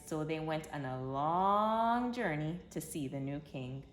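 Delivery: gentle, storybook read-aloud voice; reading to children. A narrator's reading. Narrator telling kids the Christmas story, storybook voice. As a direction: tell it like a bedtime story for little ones.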